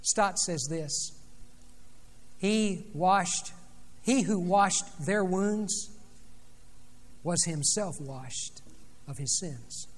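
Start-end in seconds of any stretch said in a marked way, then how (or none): 2.4-9.9 slow solemn quote. Retold or imitated. Preacher quotes a commentator solemnly.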